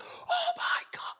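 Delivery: slow, voiceless gasped disbelief; mock freak-out. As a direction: imitate fans freaking out in a drawn-out whisper-scream. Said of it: "they just freak out".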